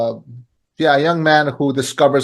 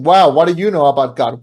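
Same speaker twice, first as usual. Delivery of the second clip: imagined challenge; 2 semitones higher, 4 dB louder than usual. Retold or imitated. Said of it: "You might be thinking".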